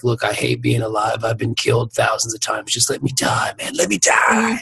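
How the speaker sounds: low and soft, fading into a whispered plea; weary, then pleading. Retold or imitated. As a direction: beg to be let go, ending in a whisper. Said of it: "if you were like".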